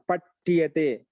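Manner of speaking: drawn-out, separated syllables; slow dictation. Shown as a demonstration. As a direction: spell it out slowly for note-takers. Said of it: "స్లోగా చెప్పరా". (నెమ్మదిగా విడదీసి పలకడం)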